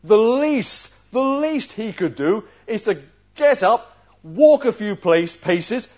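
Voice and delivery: high, loud, offended general; a proud general stung by the insult; pompous outraged nobleman, pitched high and loud; indignant Naaman. Retold or imitated. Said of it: "You can see what he's saying".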